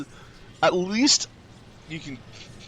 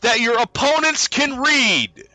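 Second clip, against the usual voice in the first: incredulous outburst; 13 semitones higher, 6 dB louder than usual. Real, not acted. Mocking the letter's logic.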